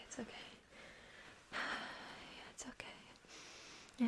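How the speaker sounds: normal talking voice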